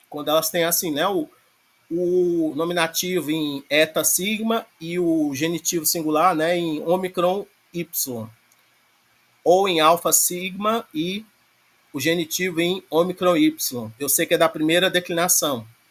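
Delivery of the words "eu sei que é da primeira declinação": rapid, rushed, too-fast speech. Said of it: "Tô falando muito rápido não".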